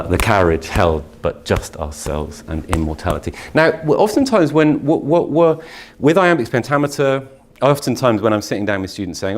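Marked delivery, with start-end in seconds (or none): 0.0-3.3 measured reading after a pause; poetry recitation. Shown as a demonstration. Teacher continuing the Dickinson reading after the pause. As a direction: read it steadily, beat by beat.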